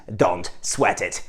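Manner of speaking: Don't sweat it, said slowly and softly; careful teacher's model; slow model phrase. Shown as a demonstration. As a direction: draw the phrase out for learners. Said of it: "po angielsku można to powiedzieć".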